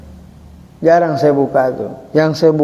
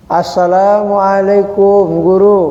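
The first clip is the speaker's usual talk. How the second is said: respectful greeting; 3 semitones higher, slower than usual. Shown as a demonstration. Demonstrating greeting a teacher.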